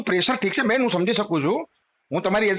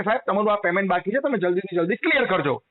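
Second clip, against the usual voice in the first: polite telecaller reminder; 4 semitones lower than usual. Retold or imitated. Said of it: "ખાલી કસ્ટમરને inform કરવાનો right છે કે".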